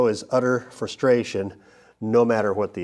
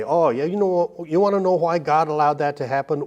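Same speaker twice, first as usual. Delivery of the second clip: higher, quicker smug explainer voice; mock know-it-all; 5 semitones higher, faster than usual. Preacher mocking people who claim to know why God allowed it, smug and quick. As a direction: play the eager know-it-all with all the answers.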